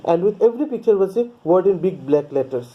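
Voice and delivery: slow, careful read-aloud of the English text; measured storybook reading pace; slow story reading. A narrator's reading. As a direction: read each sentence out slowly for the class. Reads English text slowly.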